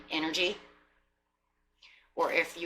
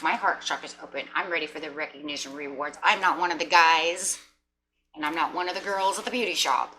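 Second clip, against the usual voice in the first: insistent declaration; 4 dB louder than usual. Retold or imitated. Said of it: "you're like".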